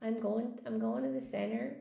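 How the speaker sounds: trying out American "senner" for "center"; American accent with a dropped t; regional American accent. Shown as a demonstration. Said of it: "maybe in some parts of America".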